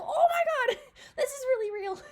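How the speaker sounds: high, loud, panicked squeal with laughs; mock freak-out. Imitating the turtle freaking out, panicked squeal. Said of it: "He's like".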